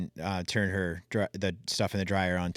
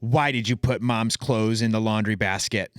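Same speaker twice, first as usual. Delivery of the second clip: daughter's question; 2 semitones higher, 3 dB louder than usual. Retold or imitated. Daughter corrects dad about the laundry, imitated child voice. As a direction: mimic the little girl calling out Dad, lightly. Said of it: "she goes".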